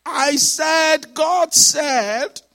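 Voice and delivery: high, loud "God said", each word hit hard; loudly proclaimed "God said"; emphatic insistence. Retold or imitated. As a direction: insist on "God said" at a near shout. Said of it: "for somebody to say emphatically".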